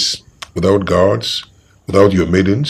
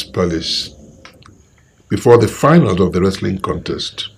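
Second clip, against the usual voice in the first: stern threat; slower than usual. Acted. King warns the guards.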